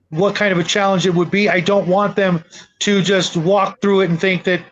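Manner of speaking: usual speaking voice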